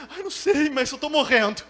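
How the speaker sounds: high, loud exaggerated whine; mock crying. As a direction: whimper loudly, playing the drama up. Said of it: "já chega chorando". (choramingo exagerado, em voz alta)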